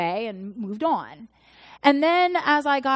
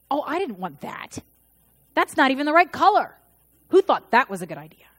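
imitating a bratty kid, louder and fast; whiny child; 3 semitones higher, 4 dB louder, faster than usual. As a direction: mimic a picky seven-year-old. Seven-year-old rejecting a gift.

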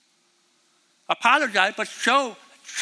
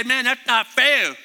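put-on a touch of a whiny teenager, louder and slow; whiny teen; 4 semitones higher, 5 dB louder than usual. Teen whining to the parent who took the phone, mild whine. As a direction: whine like a sulky kid. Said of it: "Don't be a baby and whine".

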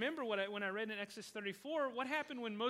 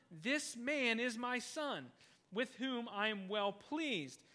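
slow solemn quote; much slower than usual. Retold or imitated. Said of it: "quoted voice from heaven".

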